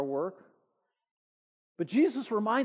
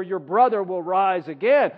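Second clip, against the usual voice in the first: firm, louder Jesus line; Jesus speaking; 2 semitones lower, 5 dB louder than usual. Acted. Jesus comforting the grieving Martha, firm and sure. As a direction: proclaim it as Jesus would. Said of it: "Jesus said to her".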